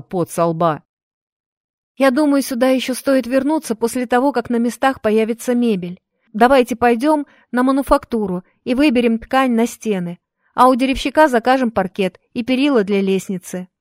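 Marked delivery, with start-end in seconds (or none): 2.0-13.7 put-on lightly raised, eager girl; a bright young helper speaking; young woman voice. Maria voiced in story.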